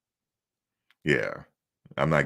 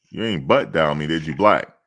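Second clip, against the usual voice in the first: loud questioning call; 4 dB louder than usual. Real, not acted. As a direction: call out louder to get his attention. Calling to someone on the call.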